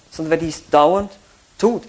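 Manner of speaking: "dauernd" rising, pause, then "tut" alone; stress on dauernd tut. Shown as a demonstration. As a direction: hold back before "tut". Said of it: "diese Betonung auf das Tun".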